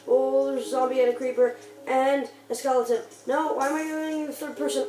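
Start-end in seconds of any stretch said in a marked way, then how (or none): 0.1-3.0 being chased. Real, not acted. Zombie and creeper appear.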